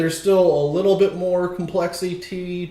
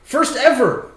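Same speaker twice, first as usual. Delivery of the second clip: high eerie ghostly voice; spooky voice; 7 semitones higher than usual. Acted. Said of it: "I do like that spooky voice".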